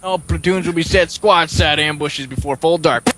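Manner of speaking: brief the platoon like a football coach; southern captain voice. Acted. S0 continues as Captain Harris.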